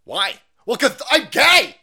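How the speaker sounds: high, loud mocking answer; loud sarcastic mock reply; mock exclamation. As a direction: blurt it out in mock pride.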